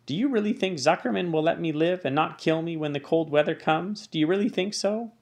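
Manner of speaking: anxious pig. Acted. Wilbur anxiously asks about dying.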